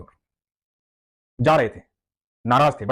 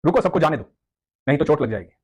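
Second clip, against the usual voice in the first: put-on boy's voice. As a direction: coax the old man to wait. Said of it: "तो बच्चा बोला कि".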